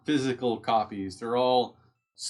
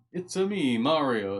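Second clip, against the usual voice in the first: Mario; slower than usual. Acted. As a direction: lightly imitate a cartoonish Italian accent. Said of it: "Italian accent".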